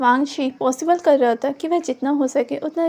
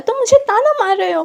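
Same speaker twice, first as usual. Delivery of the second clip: hurt accusation; 6 semitones higher, 6 dB louder than usual. A narrator's reading. Wing hurt, accusing Wangchi.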